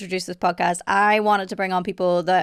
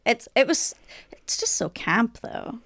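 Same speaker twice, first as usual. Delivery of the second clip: whispering; 3 semitones higher, 3 dB quieter, slower than usual. Real, not acted. Gushing about the show.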